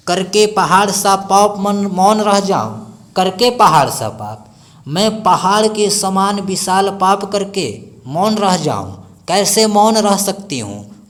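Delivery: a teacher voicing Kaikeyi's remorse; impassioned recital. Shown as a demonstration. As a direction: pour passion into the guilt. Recites with rising passion.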